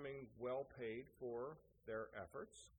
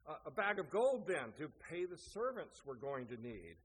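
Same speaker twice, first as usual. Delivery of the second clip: arguing over wishes; 5 dB louder than usual. Acted. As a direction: press the next demand in a mock quarrel. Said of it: "to argue about what".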